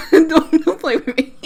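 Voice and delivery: mock-stern words broken by laughter; laughing mock warning. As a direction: repeat the dad's warning through giggles. Laughs repeating dad's line.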